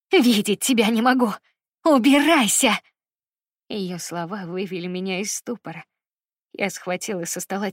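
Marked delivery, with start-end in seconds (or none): 0.1-2.7 louder, higher screaming through tears; sobbing screams. Acted. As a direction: keep screaming her away, choking up. Sobbing mother keeps screaming.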